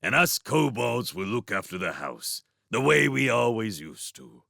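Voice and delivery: lightly voiced piping kobold. A narrator's reading. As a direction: pipe up like a small kobold. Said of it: "Timmins piped".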